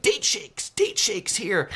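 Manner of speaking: high, stretched-out hawker's cry; roadside vendor call. Acted. Date shake shack seller to drivers, hawking in a put-on call. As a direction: call it out slowly to passing cars.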